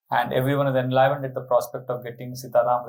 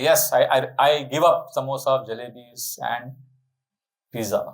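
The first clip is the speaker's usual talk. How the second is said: easy renunciation. Acted. Devotee agreeing to give up snacks, easy pledge. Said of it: "It's easy for me to say that".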